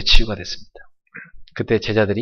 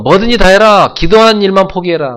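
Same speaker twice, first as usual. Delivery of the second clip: much higher, louder mocking order; devil's loud taunt; 9 semitones higher, 10 dB louder than usual. Preacher voicing the devil at full force, high loud taunt. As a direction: bellow the devil's dare to quit praying. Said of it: "마귀는요".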